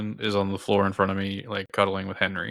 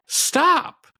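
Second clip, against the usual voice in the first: high, drawn-out retold plea to quit; exasperated protest; 4 dB louder than usual. Boyfriend telling his partner to quit, exasperated. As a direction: act out an exasperated objection.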